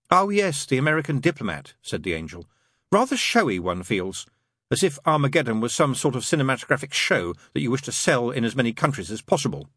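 angel character, pitch leaping on openings; lightly voiced angel. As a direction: lightly play a fussy, proper angel.

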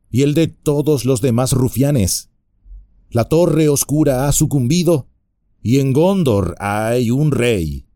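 mock innocent hobbit reply; a hint of sly hobbit; cheeky hobbit. Frodo rebukes the bandit.

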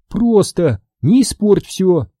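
slow, pressed warning through gritted teeth. A narrator's reading. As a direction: grind out the warning. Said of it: "процедила Астри сквозь зубы".

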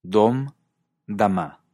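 Dom, then dama stressed on the last syllable, daMA; slow, clear demo of dama with the weight on the final MA; stress shift. Shown as a demonstration. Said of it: "Volvamos a escuchar".

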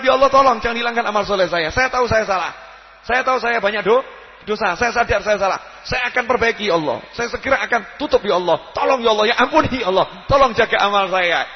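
loud, urgent plea to God; a repentant sinner crying out in prayer; fervent pleading prayer. Acted. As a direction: beg Allah not to erase your deeds. Repentant man praying for mercy.

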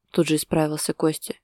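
usual speaking voice

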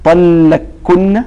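"طلقكن" drawn out slowly with a doubled kaf, ending on a rise; assimilated kaf. Shown as a demonstration. Teacher showing why the assimilated form is easier to say. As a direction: stretch "طلقكن" as tallakkunna. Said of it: "فحينما تقول".

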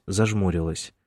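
ordinary delivery, nothing marked

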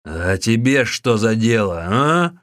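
loud, slow shouted retort; monk shouting back at the visitor; angry retort. Acted. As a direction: snap back with a challenge. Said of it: "вскричал Усун".

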